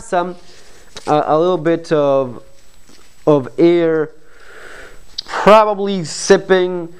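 muffled behind fabric mask; speaking while adjusting mask; through a face mask. Real, not acted. Seen 3: Black cloth mask covers mouth and nose throughout; he adjusts it.

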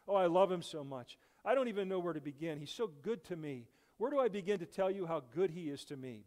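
woman telling the church how good God is; joyful testimony. Acted. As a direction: pour it out with delight. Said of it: "she said".

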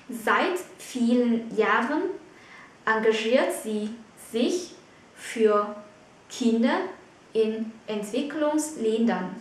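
slow, chopped into short groups with pauses; phrase-by-phrase dictation. Shown as a demonstration. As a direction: pause after "Jahren", "sie", "sich", "für" and "Kinder". Teacher repeats example in chunks.

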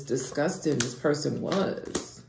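disgusting drawn out slowly with a rise; slow emphatic disgusting; stress on disgusting. Shown as a demonstration. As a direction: lean hard on disgusting, slowly. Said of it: "I have to say it like this".

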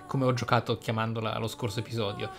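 normal talking voice

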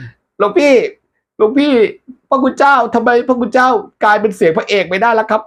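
very high puzzled voice; squeaky messenger. Acted. Messenger asking why monk's voice changed, very high.

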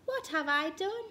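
high dismayed question; mild panic, voice lifted; wailed. A narrator's reading. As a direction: wail with dawning regret. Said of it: "wailed Duck".

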